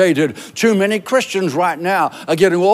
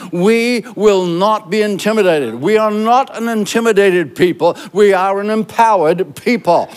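roaring rallying speech. Acted. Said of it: "we're gonna speak it together".

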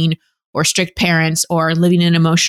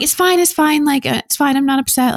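forced fine; 7 semitones higher than usual. Retold or imitated. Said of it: "and we're like".

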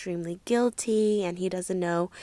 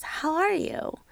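much higher, lilting imitation; soft high-pitched voice; 9 semitones higher, slower than usual. Swirly greeting her on the phone, soft high voice. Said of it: "almost high-pitched voice".

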